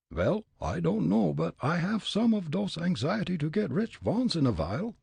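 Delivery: put-on high, comic German-accented Fritz; thick immigrant German accent, pitched high. Fritz sizing up the old man, German accent.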